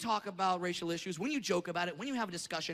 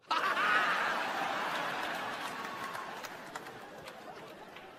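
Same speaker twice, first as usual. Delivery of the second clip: laughing; 6 semitones higher than usual. Real, not acted. Comic breaks up at own bit.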